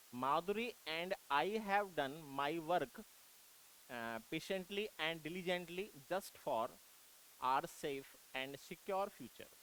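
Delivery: reads the sentence out slowly, word by word; slow dictation read. Shown as a demonstration. Teacher reading a test sentence to students, slow dictation.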